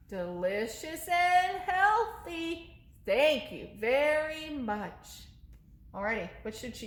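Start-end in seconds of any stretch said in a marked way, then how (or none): 0.1-5.2 higher, slow sweet little monster voice; monster puppet voice. Acted. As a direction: answer as the polite little monster.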